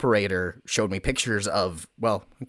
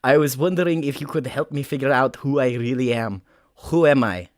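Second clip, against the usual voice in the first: loose mock-German accent; earnest question in a rough German accent; 3 semitones higher than usual. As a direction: drift into a comic German accent. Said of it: "I'm going German now".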